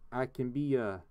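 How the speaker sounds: lightly attempted Canadian accent. Shown as a demonstration. Streamer showing off different accents to chat, Canadian accent. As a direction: try a Canadian accent, not quite confidently. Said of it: "I can have different accents".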